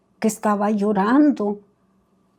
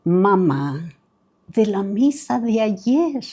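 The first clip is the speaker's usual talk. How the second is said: slow, patient retold reply with a smile; smiling; slower than usual. Son reminding mother of yesterday's mass, retold with a smile. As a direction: draw it out as a smiling gentle reminder. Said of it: "le dice sonriente".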